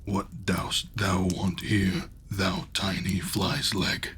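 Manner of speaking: giant voice. Acted. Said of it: "voice as if it were thundering".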